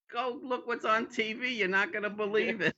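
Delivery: high, breathless gossip voice; gay man calls his friend about the TV, high and gushing; gushing friend on phone. Retold or imitated. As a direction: gush it down the phone. Imitating gay men phoning friends.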